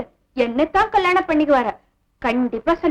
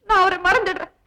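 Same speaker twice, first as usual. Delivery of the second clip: put-on sob on a higher pitch; fake tearful sacrifice; 4 semitones higher than usual. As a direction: act the noble, weeping martyr. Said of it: "பிரமாதண்டி உன் நடிப்பு".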